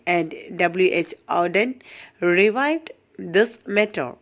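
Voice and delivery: slow, deliberate textbook read-out; reading notes aloud. Acted. Teacher reads poetry notes to students, slow measured read-aloud. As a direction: read it out phrase by phrase, with careful pauses.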